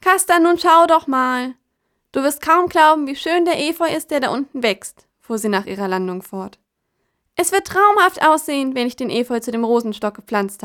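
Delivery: hoch, laut und langsam schwärmend; begeisterte Krähe. Acted. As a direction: voller Vorfreude schwärmen. Kraja begeistert vom Efeu. (begeistert schwärmende Krähe)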